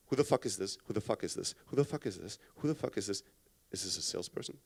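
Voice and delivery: low, hushed, wary thoughts on repeat; inner monologue. Acted. Wary callee thinking about an unknown caller, low hushed inner voice. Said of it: "that's what's going on in my mind".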